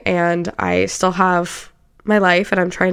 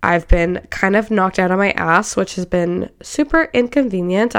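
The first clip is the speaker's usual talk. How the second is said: congested, stuffy voice; blocked nose. Real, not acted. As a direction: speak through a blocked nose. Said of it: "sound a little bit congested".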